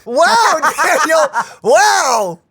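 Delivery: amazed surprise. Real, not acted. Friend reacts to odd line.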